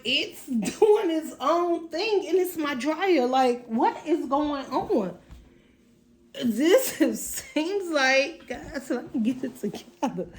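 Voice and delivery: real laughter bubbling into exasperated talk; flustered laughing. Real, not acted. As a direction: giggle through it, trying to regain composure. Giggling over the noisy dryer.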